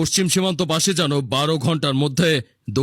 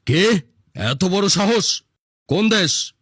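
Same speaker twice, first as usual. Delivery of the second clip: higher, indignant questioning; outraged; 4 semitones higher, slower than usual. Acted. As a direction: bark back at the insolent man. Leader outraged at the challenge. (ক্রুদ্ধ বিস্মিত প্রশ্ন)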